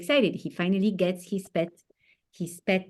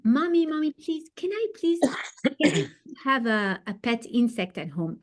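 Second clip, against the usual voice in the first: put-on child begging; 4 semitones higher than usual. Child Yossi begging his mom.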